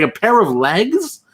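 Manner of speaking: slow, disbelieving question; incredulous echo. Retold or imitated. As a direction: repeat it slowly in mock disbelief. Incredulous echo of what was told.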